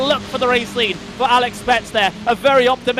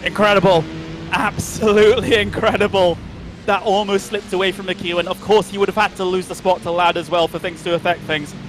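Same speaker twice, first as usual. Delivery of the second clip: breathless after a frantic finish; gasping a little between phrases; out of breath; 4 semitones lower than usual. Real, not acted. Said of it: "I'm out of breath, everyone".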